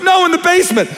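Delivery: put-on high-pitched scared teen voice; mock panicky teen whisper-shout; horror movie teen. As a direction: squeak it like a nervous teen in a slasher film. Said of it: "the other person goes".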